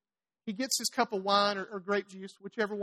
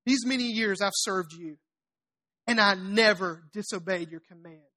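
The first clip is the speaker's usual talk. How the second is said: low, slow, grudging complaint to Dad; a spoiled brat airing his grievance, deliberately; sulky older son, slow and lower; resentful son, low and slow; 4 semitones lower than usual. Retold or imitated. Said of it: "This is the attitude of it".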